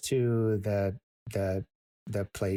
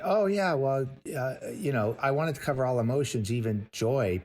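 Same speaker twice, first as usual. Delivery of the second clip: breezy mock casual; 4 semitones higher than usual. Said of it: "when you say".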